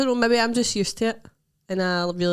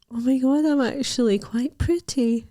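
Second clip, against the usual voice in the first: higher-pitched mock amazement; pleased surprise; 6 semitones higher than usual. Looking at her own selfie, mock pleased surprise. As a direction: act delightedly taken aback.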